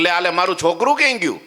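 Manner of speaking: put-on high, fast, panicked calling for her child; a mother half-wailing as she searches everywhere for her lost child; hammed-up frantic wail; frantic crying mother. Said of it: "રડે ને બૂમો પાડે".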